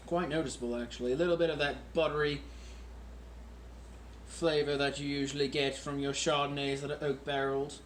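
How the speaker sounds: a lightly done, self-mocking British accent; a mock British accent kept up throughout; put-on British accent. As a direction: play a hammy English toff for the camera. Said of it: "I have a horrendous British accent".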